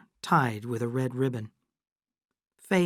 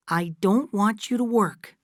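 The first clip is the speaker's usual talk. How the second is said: a lightly voiced young woman, higher, firm; Kate, insistent; 8 semitones higher, 4 dB louder than usual. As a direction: gently insist to her mother. Kate answers Fay.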